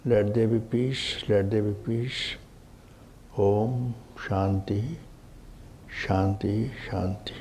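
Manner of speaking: soft, measured prayer; peace invocation. Real, not acted. Teacher opening satsang with a blessing for all beings, soft invocation. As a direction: intone a gentle blessing, softly.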